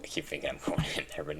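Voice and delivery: quick unvoiced whisper. Real, not acted. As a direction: whisper it fast under breath. Sudden whispered aside.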